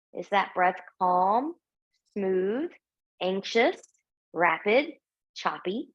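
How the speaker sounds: unhurried yoga teacher's cueing with long pauses; spaced-out meditation prompts, room to breathe between phrases; guided breathing. Real, not acted. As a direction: guide them calmly through each breath. Leads a breathing exercise.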